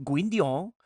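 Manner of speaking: Gwyndion with a rising Welsh lilt; attempted Welsh accent. Shown as a demonstration. Streamer demonstrating the name, amateur Welsh accent. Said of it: "you need to do it like that".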